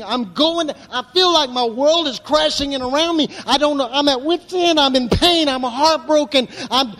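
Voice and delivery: desperate confession. Retold or imitated. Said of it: "Some of you would say".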